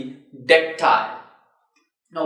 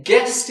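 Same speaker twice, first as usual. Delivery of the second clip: GUEST lifted higher as a stressed beat; stressed syllable; 7 semitones higher, 4 dB louder than usual. Shown as a demonstration. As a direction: stress "guest" with a rising pitch. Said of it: "is again a stressed syllable".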